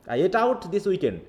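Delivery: very slow, out and weekend marked; stress on out and weekend. Shown as a demonstration. Teacher slowly demonstrating stressed words. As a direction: crawl through it, hitting out and weekend. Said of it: "এই সপ্তাহ এবং আউট".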